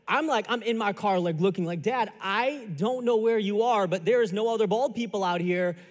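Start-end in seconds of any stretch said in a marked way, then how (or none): 1.8-5.8 exasperated son. Acted. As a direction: drag out the words, pleading with dad on the phone. Exasperated phone call with his dad.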